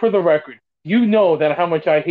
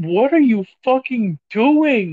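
acted-out, high, all-out screaming outburst; 6 semitones higher than usual. Recalling a player's mistake on tv, the speaker retells screaming at the tv. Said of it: "screaming at my TV".

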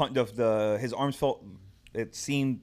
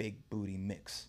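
very soft, barely audible half-whisper; 3 semitones lower, 12 dB quieter than usual. Retelling how the trainer spoke to the remote: imitating someone half-whispering. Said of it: "whispering to the remote".

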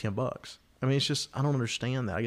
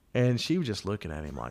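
ordinary talk

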